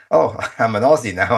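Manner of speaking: light retold joke through a laugh; joking laugh. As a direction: tease them with a chuckle as you say it. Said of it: "I'd joke and say".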